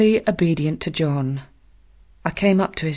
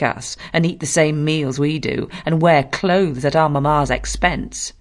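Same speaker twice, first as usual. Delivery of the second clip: put-on bully boy voice. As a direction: lord it over her, then bark the commands. John Reed's long taunting speech.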